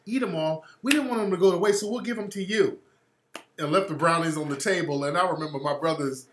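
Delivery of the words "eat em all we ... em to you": high-pitched imitation of a white woman. White woman offering brownies to the next table, imitated high. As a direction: put on a higher, politely chatty woman's voice. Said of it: "it was a white woman. She's like".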